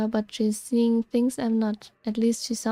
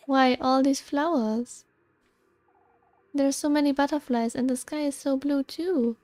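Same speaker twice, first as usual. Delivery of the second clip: a hint of a wide-eyed enchanted girl, a little higher; lightly voiced dreamy girl; 4 semitones higher than usual. Rosemarine delighting in the woods to Elisa, lightly enchanted. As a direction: marvel at the flowers and sky, lightly pitched up.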